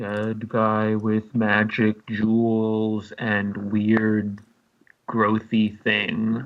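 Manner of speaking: concentrating thinking voice. Voicing a character's thoughts while a spell is cast: concentrating inner voice. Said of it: "in my mind vo-, concentrate voice".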